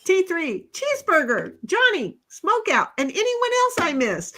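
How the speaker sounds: high, sing-song greeting list; playful imitation of a chat greeting; mock M J roll call. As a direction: rattle off names like a cheery host. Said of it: "M J's like".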